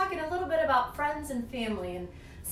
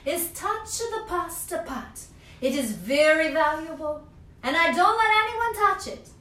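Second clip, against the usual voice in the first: Strega Nonna calling; 5 semitones higher, 7 dB louder than usual. Acted. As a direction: call his name like a grandma witch, stretched and loud. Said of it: "said Strega Nonna".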